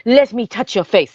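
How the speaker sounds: hammed-up bad French accent; crappy French accent. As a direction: imitate a badly faked French accent. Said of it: "her crappy French accent".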